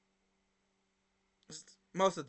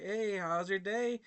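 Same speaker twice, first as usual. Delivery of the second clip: happy greeting; 3 semitones higher, slower than usual. Retold or imitated. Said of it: "I was being happy, smiley".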